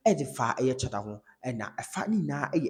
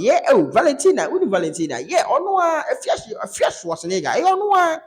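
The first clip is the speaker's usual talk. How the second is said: much higher, louder mock lady's voice; imitating the lady's voice; 13 semitones higher, 9 dB louder than usual. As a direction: put on her high, loud way of talking. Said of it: "wotie ne voice, ɛne tone a wɔde kasa".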